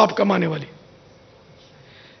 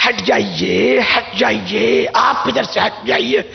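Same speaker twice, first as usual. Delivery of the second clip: polite driver; slower than usual. Retold or imitated. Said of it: "پھر وہ ایسا میٹھا لگ رہا تھا".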